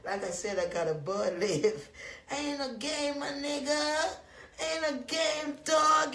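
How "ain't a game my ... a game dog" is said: a hyped-up catchphrase shouted at viewers. Acted. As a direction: belt it out to the chat.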